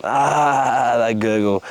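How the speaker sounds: rhythmic performance-poet delivery, voicing his stoned mates; spoken-word poem. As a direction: bring the stoner scene to life line by line. Performs a poem about smoking dope.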